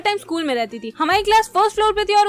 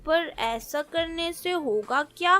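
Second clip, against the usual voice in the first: put-on kids plotting. Acts out children plotting with firecrackers.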